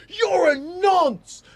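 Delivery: slow, high, drawn-out mock yell; imitating an angry woman's taunt. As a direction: jeer it out in a high voice. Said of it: "that lady comes up to that dude ... and goes".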